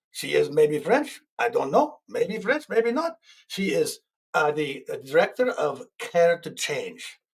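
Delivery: lightly put-on French accent. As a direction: play it as a mock French speaker. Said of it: "that's my best French accent I can do".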